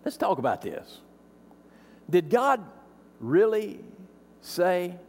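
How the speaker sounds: hushed tempter; sly snake. Retold or imitated. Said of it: "the snake slithers in and says".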